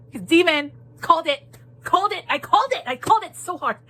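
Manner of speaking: triumphant. Real, not acted. Triumph at predicting the twist.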